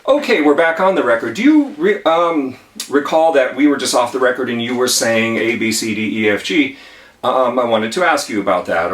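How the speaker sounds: mock opposing attorney springing the trap; lightly voiced lawyer turning the tables; sly attorney. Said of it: "the attorney may not be so nice after all and may say".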